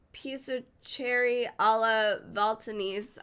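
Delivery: unsure American attempt at "piece of cherry alla Valtanese"; real fumbled Italian dish name; butchered Italian. Real, not acted. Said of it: "I'm butchering all of this Italian".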